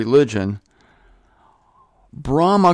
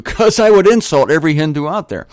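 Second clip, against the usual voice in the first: amused, louder and quicker, with a laugh; 2 semitones higher, 4 dB louder, faster than usual. Real, not acted. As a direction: laugh while admitting it. Laughs at own failed accent.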